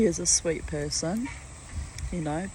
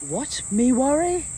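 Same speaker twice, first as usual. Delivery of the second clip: mock carefree; 8 semitones higher, 5 dB louder than usual. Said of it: "it's like".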